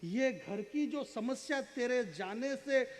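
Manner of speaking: slow verse swelling, then dropping at the close; poetry recitation. Acted. Poet building to the brother's lost pride, paced dramatic recitation. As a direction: stretch phrases with dramatic pauses.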